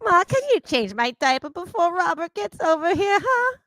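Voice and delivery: put-on childish whine, rising to a high squeak at the end; bratty kid voice. A brat asking mom for a diaper change, whining. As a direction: beg mom like a spoiled teen.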